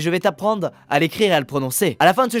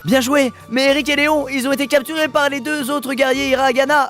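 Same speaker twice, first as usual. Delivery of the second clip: hammed-up game voice; 5 semitones higher than usual. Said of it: "J'en peux plus de mes voix".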